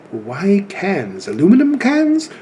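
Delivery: imitating a British teacher, pitch leaping up in disbelief; rough mock-British accent. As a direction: put on a puzzled British voice. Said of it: "Excuse my British accent".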